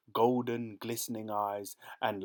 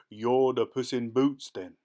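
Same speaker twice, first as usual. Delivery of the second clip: louder, menacing ogre question; roaring ogre; 2 semitones higher, 7 dB louder than usual. Acted. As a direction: loom over the cat with a roar. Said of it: "roared the ogre".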